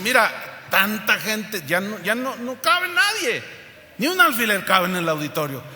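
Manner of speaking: mildly hammed-up doorman, pitch climbing high; portero insistente. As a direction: turn them away, stretching it high at the climax. Portero insiste en negar entrada. (portero insistente, exagerado y agudo)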